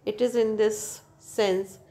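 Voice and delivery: slow, careful reading from the book; textbook reading. Acted. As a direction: read the definition out slowly for students. Reads textbook English slowly.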